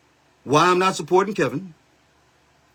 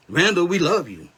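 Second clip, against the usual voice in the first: "Randall, we love you" put on as a fawning follower; hammed-up adoring supporter; sneering mock devotion; sarcastic fan voice. Mocking Randall's supporters again.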